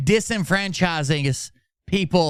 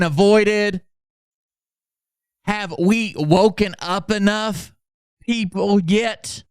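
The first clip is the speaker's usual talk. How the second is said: higher, slow, sermon-like; mock dramatic reading; 5 semitones higher than usual. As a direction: read it like a grave prophecy. Reads Phil's post dramatically.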